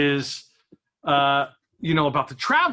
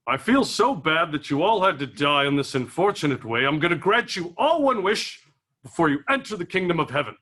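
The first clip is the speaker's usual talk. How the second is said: lightly voiced game-show-host God. God addressing the dead at heaven's gate, game show host voice. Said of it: "God sounds like a game show host".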